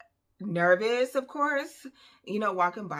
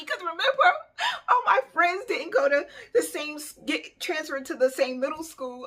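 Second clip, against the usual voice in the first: higher and louder, laughing through it; laughing while telling; 10 semitones higher, 6 dB louder than usual. Real, not acted. Telling a friend about being alone at school, laughing. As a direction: laugh at how sad it was.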